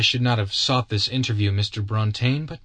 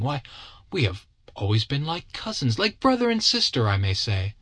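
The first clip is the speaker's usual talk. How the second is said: a touch of tearful strain, higher; almost weeping; 6 semitones higher than usual. Acted. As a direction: plead close to tears. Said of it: "She was almost weeping".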